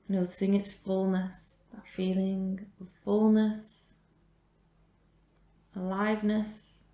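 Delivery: measured meditation guidance with long pauses; guided meditation. Real, not acted. Yoga teacher guides a class resting in supported fish, guided meditation. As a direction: guide the breath, leaving space after each phrase.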